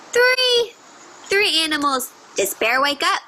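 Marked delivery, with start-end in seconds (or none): 0.1-0.7 excited counting. Acted. Counting animals with kids.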